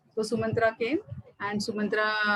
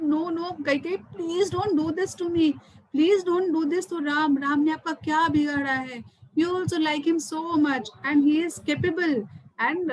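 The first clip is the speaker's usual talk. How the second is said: higher, mildly distressed retold plea; very unhappy pleading; 4 semitones higher than usual. Storyteller as unhappy king begging his wife, pleading. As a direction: implore her, lightly acted, drawing out "please". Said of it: "Dashrath gets very unhappy, very unhappy".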